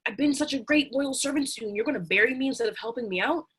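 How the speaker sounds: donkey crying. Acted. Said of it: "Donkey's crying".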